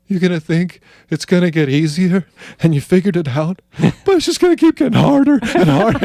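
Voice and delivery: high, rising into laughter; laughing warning. Retold or imitated. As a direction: warn him while cracking up. Friend laughing through a warning.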